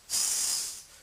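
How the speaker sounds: s as a long, loud hiss of air; fricative. Shown as a demonstration. Example of friction for viewers, hissed s. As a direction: hold s as pure friction, no voice. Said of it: "You're making friction".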